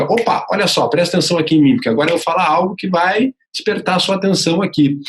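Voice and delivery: high-pitched, attention-grabbing call; going way up. Shown as a demonstration. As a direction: lift the pitch right up to wake the listener. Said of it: "algo que você vá lá pra cima".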